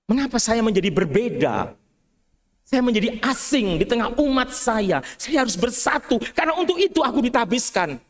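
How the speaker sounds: mild tearful lament to God; retold crying prayer. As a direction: plead with God, near tears. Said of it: "Tapi saya menangis".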